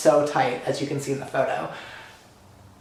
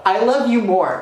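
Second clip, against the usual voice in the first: excited reply; 6 semitones higher, 5 dB louder than usual. Retold or imitated. Taylor's reply, retold.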